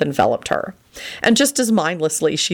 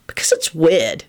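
mildly irritated explanation; irritable. A narrator's reading. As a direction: answer a touch peevishly. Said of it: "he replied irritably".

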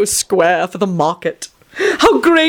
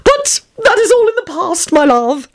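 dour Tony; 10 semitones higher than usual. A narrator's reading. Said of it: "Tony said dourly".

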